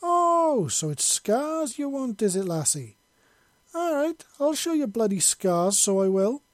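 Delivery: indignant Scot rising to the bait; annoyed. A narrator's reading. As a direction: flare up, full Scottish accent breaking through. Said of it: "Monty said in annoyance".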